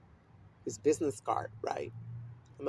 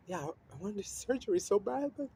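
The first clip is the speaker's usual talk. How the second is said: high-pitched reenactment of pleading; retold frantic plea; 11 semitones higher than usual. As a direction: climb higher and higher, acting out the upset. Retells pleading and making a scene.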